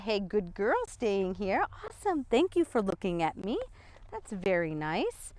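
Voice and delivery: soft, gentle praise to a dog; softly reward the dog for staying put; verbal praise. Shown as a demonstration. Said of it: "I can praise her for that".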